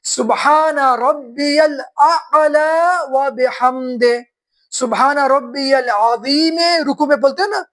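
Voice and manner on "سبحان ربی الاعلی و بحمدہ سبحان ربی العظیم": slow prayer recitation. Shown as a demonstration. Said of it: "تو کیا پڑھتے ہیں؟".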